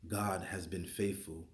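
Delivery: reading Psalm 98 aloud with conviction; scripture reading. Acted. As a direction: read it like a proclamation.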